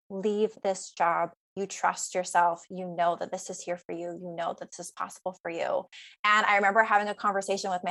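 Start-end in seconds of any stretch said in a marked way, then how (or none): 0.1-5.9 inner voice. Retold or imitated. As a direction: quietly urge yourself to trust. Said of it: "part of me that I remember so vividly telling me".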